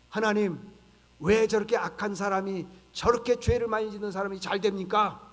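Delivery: loud, indignant prophet's complaint; acted angry protest. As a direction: challenge God in mock outrage, forceful but not screamed. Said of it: "화내고요, 분노하는 거예요". (분노한 선지자처럼 크게 따지는 연기)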